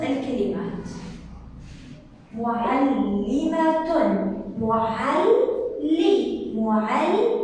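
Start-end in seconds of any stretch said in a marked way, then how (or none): 2.3-7.4 slow معلمة with the ل held long; doubled lam demo. Shown as a demonstration. Teacher showing the stressed lam, معلمة drawn out by syllable. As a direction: break معلم after a long ل, then resume. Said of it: "فإذا اللام هي المشددة".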